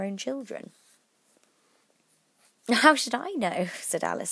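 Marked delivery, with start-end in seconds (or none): 2.7-3.7 higher, louder, surprised at own boldness; bold retort. A narrator's reading. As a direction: pipe up boldly. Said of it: "surprised at her own courage".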